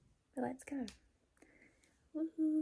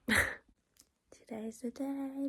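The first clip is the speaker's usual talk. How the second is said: excited whisper; 7 semitones higher, much slower than usual. Real, not acted. Excited departure morning, laughing.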